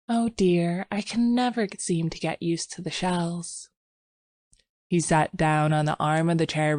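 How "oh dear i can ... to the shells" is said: sighing. Acted. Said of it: "she only sighed".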